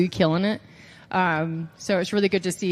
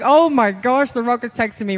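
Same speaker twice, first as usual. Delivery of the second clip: louder, bubbling over with excitement; giddy excitement; 3 semitones higher, 5 dB louder than usual. Retold or imitated. Wrestler reliving the Rock's text to podcast host, giddy and excited. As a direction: gush like a starstruck fan. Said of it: "I was like".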